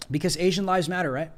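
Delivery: mocking, rising "right?"; dripping with sarcasm; sarcastic. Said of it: "I'm being sarcastic".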